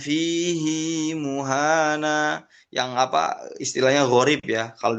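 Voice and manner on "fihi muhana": Fihi muhana slow, with a long "hii"; Hafs reading. Shown as a demonstration. Teacher contrasts the unusual Hafs reading. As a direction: draw out the "hi" of Fihi. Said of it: "hanya ini aja yang dibacakan".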